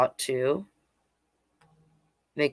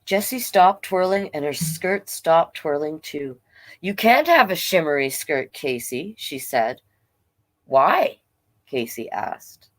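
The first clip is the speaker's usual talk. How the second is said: story narration. A narrator's reading. Reads picture book aloud.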